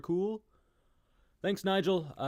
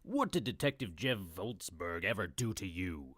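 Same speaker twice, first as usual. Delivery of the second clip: soft, lower whisper; whispered question; 6 semitones lower, 5 dB quieter than usual. Acted. Guest asking what the detective did, a soft whisper. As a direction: whisper back in suspense.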